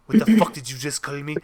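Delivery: mildly angry imitated Spanish accent; affronted Spaniard, accent lightly put on. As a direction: demand it with a mock Spanish accent. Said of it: "a look of murderous rage".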